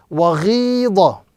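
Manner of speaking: "waghidha" with the "ghi" stretched long; prolonged long i. Shown as a demonstration. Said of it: "prolongation and the emphasis being applied".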